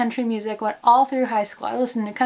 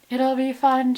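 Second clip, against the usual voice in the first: mock sarcastic quote; 3 semitones higher, slower than usual. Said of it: "they said".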